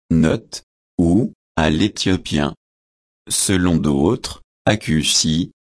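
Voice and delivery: hushed parenthetical note; quiet aside. A narrator's reading. Editorial note read as an aside.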